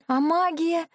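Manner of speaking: high, startled question; a heroine startled that magic fails, astonished exclamation. Acted. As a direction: blurt it out in disbelief. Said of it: "воскликнула изумлённо".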